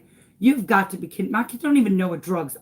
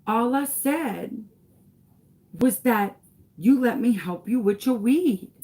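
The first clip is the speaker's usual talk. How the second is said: lightly voiced little boy, higher pitched; child's voice; 4 semitones higher than usual. Son innocently explaining to his mom, lightly voiced child. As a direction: imitate an earnest kid, pitch lifted. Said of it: "He said".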